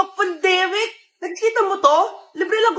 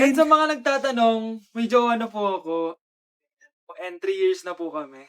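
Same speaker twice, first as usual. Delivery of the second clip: deep cool guy voice; 8 semitones lower, 4 dB quieter than usual. Acted. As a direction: play the taken heartthrob. New classmate announces girlfriend. (mababang boses ng gwapong kaklase)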